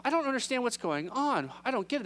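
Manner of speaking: a touch of panic at being lost; mild freak-out. Acted. Disciples baffled by what Jesus says, mildly freaking out. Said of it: "They must be freaking out".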